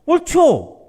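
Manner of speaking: defiant comeback, suddenly high and loud; indignant retort. Acted. Jonah answers God back in protest.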